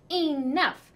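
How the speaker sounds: high, loud mother's shout; mother shouting to stop a fight. A narrator's reading. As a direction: cut the boys off hard. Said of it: "Missus Budwing shouted".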